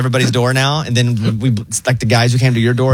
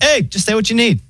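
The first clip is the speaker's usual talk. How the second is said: high, relaxed robot operator voice; chill AI voice; 11 semitones higher than usual. Retold or imitated. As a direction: imitate a laid-back phone bot. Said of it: "And then it's like".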